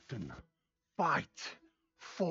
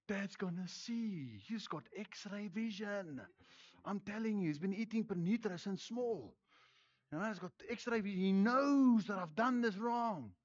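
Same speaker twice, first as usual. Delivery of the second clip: put-on naughty child; 2 semitones higher, 7 dB quieter than usual. Naughty child dreading dad's X-ray vision, softly acted worry. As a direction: lightly voice a child afraid of being found out. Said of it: "they're like".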